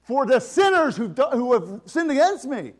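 a hint of the Father demanding payment; God the Father. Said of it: "puts out his hand and says".

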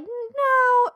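emphatic no. Retold or imitated. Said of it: "And I was like".

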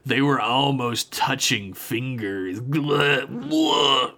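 slow, lightly hammed-up tattling with gagging blahs; mock disgust. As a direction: play it as mock revulsion. Mocking a retold character's disgust.

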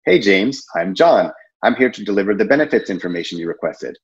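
calm measured pitch at the door. Shown as a demonstration. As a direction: take your time with the intro. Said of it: "I'll say it a little bit slower than that".

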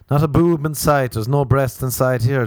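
mock shocked outburst; loud exclamation. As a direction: blurt it out in disbelief.

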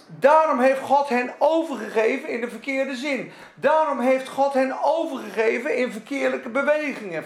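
rising pulpit fervor; fiery preaching. Acted. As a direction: preach it hard to the congregation. Preaching at full force.

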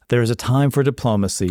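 put-on quick movie quote in shaky French accent; faint, badly faked French accent; attempted French accent. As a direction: repeat the film line with a botched French accent. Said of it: "you just cannot do a French accent".

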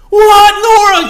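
loud, high, slow amazed cry; astonished. Retold or imitated. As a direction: burst out in disbelief at seeing him. Friend's astonished greeting retold.

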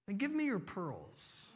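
soft, careful request; lightly voiced dad, quietly asking; gentle father. Dad asks his daughter for her treasure, gently.

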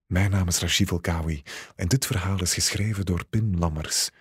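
ordinary delivery

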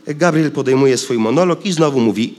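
ordinary delivery, nothing marked

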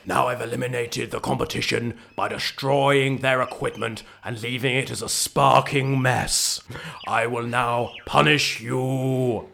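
low, gloating villain voice; menacing villain. Acted. Villain monologue.

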